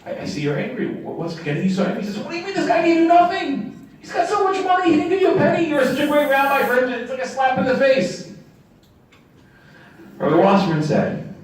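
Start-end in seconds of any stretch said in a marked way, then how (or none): 0.0-2.0 gentle rabbi. Retold or imitated. Rabbi gently asks student. 2.2-8.3 high, indignant outburst; outraged student. Retold or imitated.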